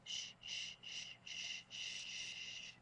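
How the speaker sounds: soft hushing shh to herself; shushing herself. Real, not acted. An artist shushing herself while painting, soft hushing. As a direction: hush yourself under your breath. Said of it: "I laugh at myself when I do that".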